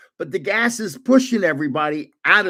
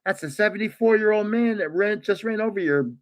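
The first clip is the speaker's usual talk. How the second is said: quoting son, laughing; 3 semitones higher than usual. Retold or imitated. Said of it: "you hear my son going".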